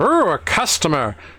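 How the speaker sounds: goblin shopkeeper voice. Voicing the goblin shopkeeper greeting a customer: voicing the goblin Caliban. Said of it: "He's like".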